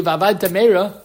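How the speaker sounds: v'avadtem mehera run together so the two mems merge into one; slurred quickly. Shown as a demonstration. Teacher repeats the quick reading, words run together. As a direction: rush v'avadtem mehera so one mem drops out. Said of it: "if you say that quickly".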